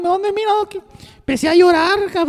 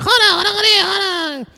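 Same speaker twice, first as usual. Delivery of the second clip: mock Arabic gibberish; 4 semitones higher than usual. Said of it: "el güey nomás me decía".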